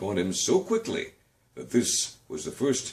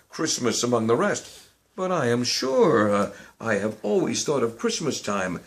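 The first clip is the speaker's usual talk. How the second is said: earnest nephew; 2 semitones higher than usual. Acted. Nephew's held voice.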